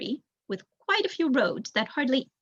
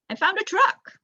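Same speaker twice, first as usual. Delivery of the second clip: high, loud call from the bushes; excited shout; 10 semitones higher, 5 dB louder than usual. A narrator's reading. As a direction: call out to the others from out of sight. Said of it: "he called".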